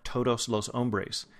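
todos los hombres slow, with aspirated American t; American accent in Spanish. Shown as a demonstration. Teacher mocking how Americans speak Spanish, American accent. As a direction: say todos los hombres like a gringo, crisp and clean. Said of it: "it sounds like".

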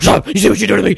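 unhinged shouted tirade; angry rant. Acted. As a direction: rage at her until it cracks into screams. Acted Mel Gibson rant, screaming.

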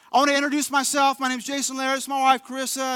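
put-on young pastor's bright, loud spiel to the room. Young pastor introduces himself to six hundred pastors, loud and eager. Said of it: "going through the whole spiel".

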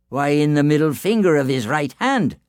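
whisper-loud from the cradle; Finn answering. A narrator's reading. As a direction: Finn tells his wife. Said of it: "said Finn".

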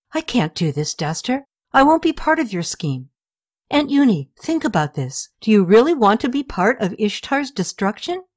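a hint of a distressed young niece; young girl Sitri, upset.

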